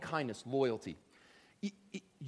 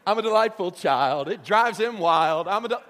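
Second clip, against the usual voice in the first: mock self-delight; 2 semitones higher, 8 dB louder than usual. Mocking a self-delighted believer.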